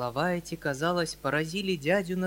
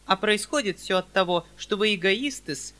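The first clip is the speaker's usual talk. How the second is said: high, louder prim spinster with wounded dignity; high, louder haughty spinster voice; dignified spinster; 6 semitones higher, 7 dB louder than usual. Acted. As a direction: stand on your dignity as the old maid. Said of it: "с достоинством отвечала".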